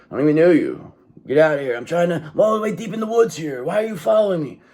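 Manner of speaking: high-pitched exasperated protest; indignant hermit. Acted. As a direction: plead to be left alone, pitch climbing. Acting out the hermit being hounded.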